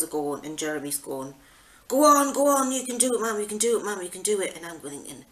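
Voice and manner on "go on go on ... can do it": cheering. Retold or imitated. Daughters cheering her on.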